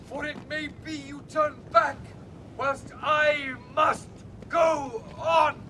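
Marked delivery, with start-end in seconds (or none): 1.3-5.6 raised voice. Acted. Stranger calls across the ice.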